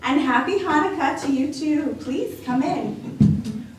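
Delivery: lightly voiced cheerful grandma welcoming a guest; a hint of a bright old lady; old grandmother voice. Baba Brana's voice.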